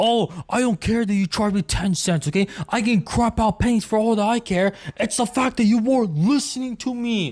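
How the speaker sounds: mock-furious, wild, frantic ranting tirade. Retelling what a man kept saying over and over: retelling a furious rant. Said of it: "going absolutely insane".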